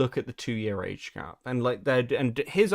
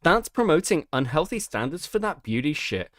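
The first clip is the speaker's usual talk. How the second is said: put-on Valley Girl voice; 4 semitones higher than usual. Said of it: "Why do you sound like a Valley Girl?".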